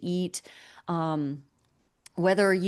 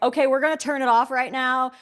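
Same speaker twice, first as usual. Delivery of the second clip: raised, brisk, louder mock announcement; lightly voiced busy digestion; 4 semitones higher, 4 dB louder, faster than usual. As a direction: act like an overloaded body too busy to bother. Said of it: "your digestion is like".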